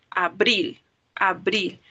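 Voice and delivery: "Abril" said twice, each leaning on "bril"; stress on last syllable. Shown as a demonstration. Teacher demonstrates an unwritten accent, "abril" stressed at the end. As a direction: say "abril" deliberately with intensity on the final syllable. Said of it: "vamos a pronunciarla con intensidad".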